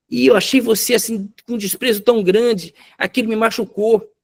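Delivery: high, pleading voice of a hurt wife; acted tearful wife, pitched far up; imitated crying. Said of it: "Ela chorando disse".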